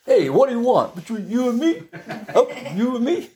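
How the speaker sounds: high, far-off mocking challenge; evil spirit goading Jesus into a fight; taunting spirit. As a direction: taunt like a demon itching to fight. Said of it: "he wants to fight".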